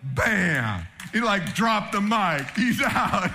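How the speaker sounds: excited. Real, not acted. Excited punchline after quote.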